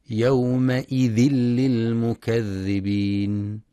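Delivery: slow, careful chanted phrase; tajweed recitation. Shown as a demonstration. Teacher demonstrating the merge in chant, unhurried. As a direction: chant it slowly, merging the sounds cleanly. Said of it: "وينتبه القارئ لرخاوة الذال".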